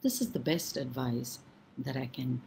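unhurried storyteller reading a fable aloud; story narration. A narrator's reading. Storyteller telling children a fable, calm and measured. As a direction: draw listeners into an old tale.

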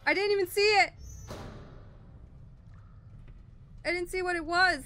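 breathless. Real, not acted. After monster passes.

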